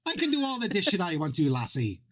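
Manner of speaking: a weak stab at an Irish brogue; mock Irish, barely voiced; bad Irish accent. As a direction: put on a half-hearted Irish lilt. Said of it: "your Irish is downright crap fund".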